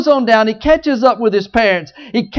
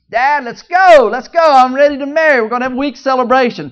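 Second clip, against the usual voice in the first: eager; 5 semitones higher, 6 dB louder, faster than usual. Acted. Samson eager to marry, tells dad.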